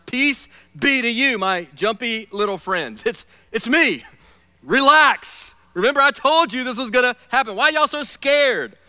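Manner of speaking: amused, teasing greeting with a grin; grinning Jesus. Retold or imitated. Jesus greeting startled disciples, amused and grinning. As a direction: smile through it at your jumpy friends. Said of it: "with a little bit of a grin on his face".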